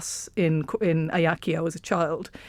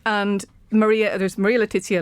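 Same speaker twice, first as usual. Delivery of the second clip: Italian pronunciation; 2 semitones higher than usual. Shown as a demonstration. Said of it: "I'm just gonna sound like Super Mario".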